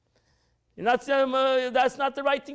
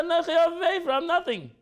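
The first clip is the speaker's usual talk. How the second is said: higher, chuckling through the words; a light, amused self-abasement; laughing mock humility; 7 semitones higher than usual. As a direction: laugh as you protest your nothingness. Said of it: "But he said".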